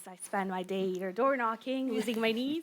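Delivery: strained, hoarse speaking voice. Real, not acted. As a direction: voice going hoarse. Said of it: "losing my voice".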